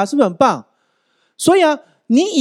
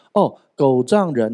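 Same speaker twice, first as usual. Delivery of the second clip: 噎住; 4 semitones lower, slower than usual. Retold or imitated. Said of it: "然后突然噎到".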